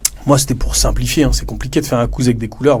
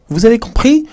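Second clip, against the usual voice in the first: pointed question; 11 semitones higher than usual. Retold or imitated.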